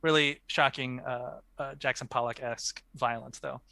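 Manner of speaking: languid pretentious art snob; unhurried, lofty gallery critique; art critic voice. Pretend. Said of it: "in your best, uh, art critic voice".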